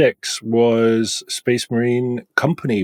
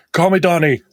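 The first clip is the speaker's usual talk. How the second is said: mock seductive line; 8 semitones higher, 4 dB louder than usual.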